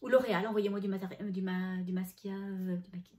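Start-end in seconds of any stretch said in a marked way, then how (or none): 1.8-2.3 "masquia" blurted as a slip for maquillage; garbled word. Shown as a demonstration. Laughing at herself to viewers, garbled "masquia". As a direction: trip over "masquia", saying maska. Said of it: "on dit pas de masquia".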